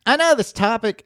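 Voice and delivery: high-pitched failed Boston attempt; badly faked Boston accent. Shown as a demonstration. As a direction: try Boston and miss it. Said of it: "all right, I'll try it".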